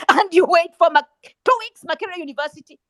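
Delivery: loud, exasperated burst; indignant outburst. Real, not acted. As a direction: burst out loudly in disbelief.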